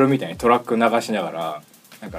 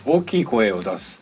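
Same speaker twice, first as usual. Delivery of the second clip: slow drill; slower than usual. Shown as a demonstration. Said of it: "復習するよ。".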